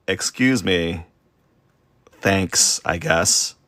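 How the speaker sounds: mild mock-offended thanks, with pauses; passive-aggressive retort. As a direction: retell a grudging thank-you, slightly pointed. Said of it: "the passive aggression".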